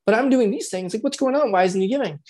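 mild hurt confusion, mock partner; puzzled partner voice. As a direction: wonder aloud what's going on. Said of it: "I'll change my tone of voice".

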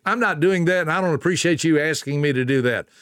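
curt, fast refusal; a harsh, stinging no; harsh answer. Shown as a demonstration. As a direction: snap the refusal back fast. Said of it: "that's not a soft answer".

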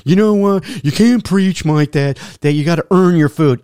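a food hater jeering at the coach, loud; mock heckler. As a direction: throw the heckle back loud and indignant. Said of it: "food haters out there that are gonna go to me".

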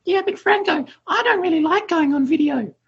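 high, whining complaint; whiny voice. Retold or imitated. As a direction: whine it like a reluctant beginner. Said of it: "the little whiny voice in the corner".

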